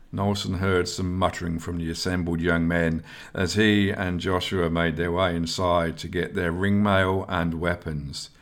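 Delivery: plain reading voice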